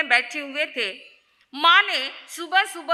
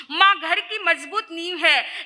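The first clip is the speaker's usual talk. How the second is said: laughing repeat; 3 semitones higher than usual. Real, not acted. Repeats key line, laughing.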